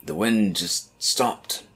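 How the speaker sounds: slow, ominous game voice; character voice. Acted. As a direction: draw it out, uneasy. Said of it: "I was doing all the other voices".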